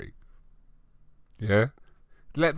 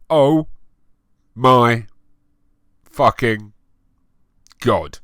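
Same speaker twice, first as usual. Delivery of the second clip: screamed; 3 semitones higher, 9 dB louder, slower than usual. Acted. Fangirl hearing about the concert, mock screaming. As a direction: scream each word apart like a fangirl. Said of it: "I screamed".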